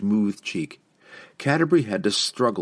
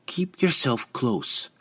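dwarf lass voice; 5 semitones higher, slower than usual. A narrator's reading. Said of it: "Canterbury instructed".

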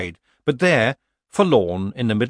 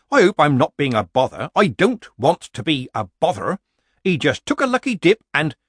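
put-on meek old witch; 6 semitones higher, 6 dB louder than usual. A narrator's reading. Granny excuses herself meekly.

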